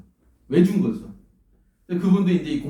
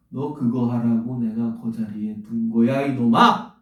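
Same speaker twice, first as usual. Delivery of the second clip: divine scolding; 2 semitones lower, slower than usual. Retold or imitated. God scolds the preacher for missing his purpose, slow stern rebuke. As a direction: voice a stern God, drawn out, then a sudden jab.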